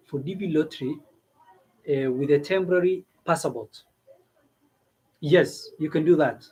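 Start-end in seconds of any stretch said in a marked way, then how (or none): none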